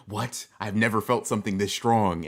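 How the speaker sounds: hammed-up awestruck disbelief; mock astonishment. Streamer voicing Yuta as Miwa walks by, mock astonishment. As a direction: play a stunned character reacting to huge power. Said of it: "he's gonna be like".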